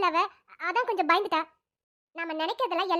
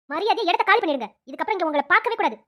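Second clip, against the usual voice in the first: louder, stern order to leave; angry dismissal; 3 semitones lower, 5 dB louder than usual. Acted. Wife orders the girls out of the hospital, angry. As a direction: throw them out with authority.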